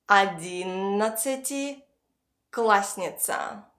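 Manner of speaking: slow Одиннадцатиклассница, pausing before классница; split in two. Shown as a demonstration. Teacher has learners repeat after her, slowly in two parts. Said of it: "split this word into two parts".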